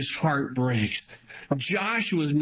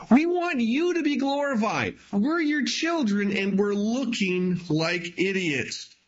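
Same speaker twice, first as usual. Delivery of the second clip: higher, pleading cry to God; Joshua crying out; 5 semitones higher than usual. Retold or imitated. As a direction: plead up to the Lord, voice lifted high. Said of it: "He's crying out to God and says".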